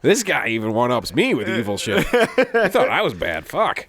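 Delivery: mock awe from an outdone devil; impressed Satan. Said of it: "He's, like, all excited to meet him".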